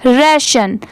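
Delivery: राशन with a front 'rae' vowel, then 'shan'; 'ray-shan' model. Shown as a demonstration. Teacher repeating the corrected ending, राशन as rae-shun. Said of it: "राशन पढ़ेंगे".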